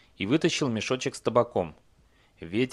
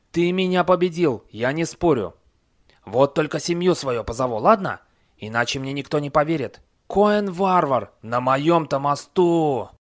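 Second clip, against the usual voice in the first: raised, eager troll voice; starstruck troll; 4 semitones higher, 6 dB louder than usual. A narrator's reading. Starstruck troll surrenders to Cohen. (восторженный голос тролля)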